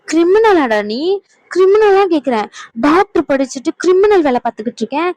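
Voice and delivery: a wife shouting in disbelief; angry shout. Acted. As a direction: yell the accusation at him. Scolding husband over kidnapping.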